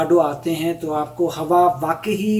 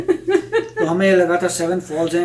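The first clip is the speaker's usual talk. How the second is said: laughing through words. Real, not acted. Laughing at the waterfall's name.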